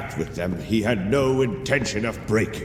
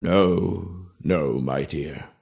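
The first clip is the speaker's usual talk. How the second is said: slow, lower gentle correction; tender; 3 semitones lower, much slower than usual. Acted. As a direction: soothe the little one. Grandparent gently corrects child.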